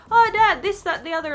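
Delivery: talking through a swollen nose; stuffy voice after surgery; blocked nose voice. Retold or imitated. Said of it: "I was talking like this".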